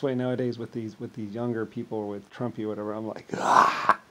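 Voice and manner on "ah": loud, high, drawn-out mock outrage. Man mimicking younger people's reaction to Trumpy, mock outrage. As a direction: mimic a scandalized shout, stretched out.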